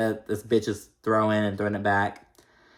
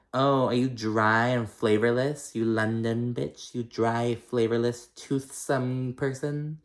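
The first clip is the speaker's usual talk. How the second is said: mock sneering comeback; slower than usual. Imagined comeback, mocking Londoner.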